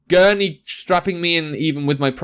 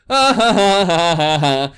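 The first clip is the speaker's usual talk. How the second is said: nervous laugh; slower than usual. Real, not acted. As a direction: laugh nervously through the dread. Nervous laugh before cutting bone.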